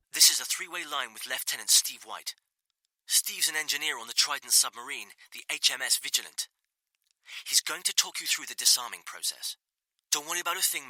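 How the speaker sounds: a hint of Welsh, reassuring over the line; Welsh accent. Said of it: "White said in an accent so well".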